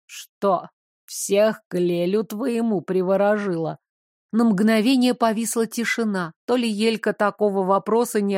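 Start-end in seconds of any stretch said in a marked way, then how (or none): 0.0-3.8 hoarse creature voice. Acted. Hoarse stranger mocks Elka.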